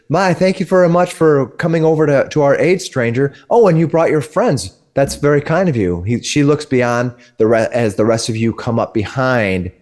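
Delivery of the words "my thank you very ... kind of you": a lightly raised, grateful lady's voice; gracious woman. Acted. Wagon woman thanking the stranger, lightly higher voice. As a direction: thank the stranger a touch higher than usual. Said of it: "looks over and says".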